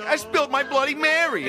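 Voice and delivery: high, slow, hammed-up sitcom line; mock a sitcom actor announcing his mishap; slow, high mock wail for a studio audience; sitcom character. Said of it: "doing an episode of Three's Company".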